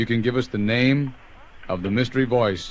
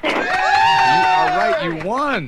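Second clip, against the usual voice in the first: excited; 5 dB louder, much slower than usual. Acted. Announcing winner, gleeful.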